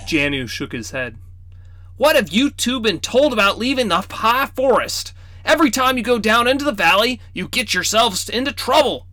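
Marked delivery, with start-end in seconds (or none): 2.0-9.1 put-on high, scolding old man voice; teasing grandfatherly reproach; stern grandfather. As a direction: chide the crow-boy like a fussy old grandpa.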